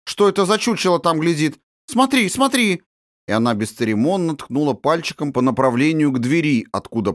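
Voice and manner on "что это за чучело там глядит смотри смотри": excited pointing. A narrator's reading. Princess points at the door.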